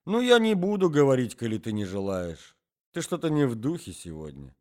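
put-on a garrulous old man starting a tale; old man's voice.

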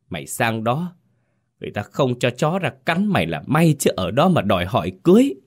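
high, fast scolding of her son; scolding tirade. Acted. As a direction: rain down abuse on the boy. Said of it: "chửi xối xả". (mẹ mắng xối xả con trai, giọng cao và nhanh)

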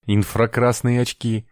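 surprised outburst at the goggles; blurted out. A narrator's reading. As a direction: blurt it in wonder. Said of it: "вырвалось у Давида".

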